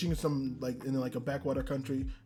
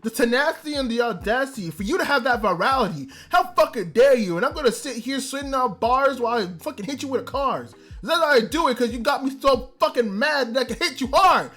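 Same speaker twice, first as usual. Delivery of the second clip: indignant rant; 2 semitones higher than usual. Retold or imitated. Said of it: "and I was like".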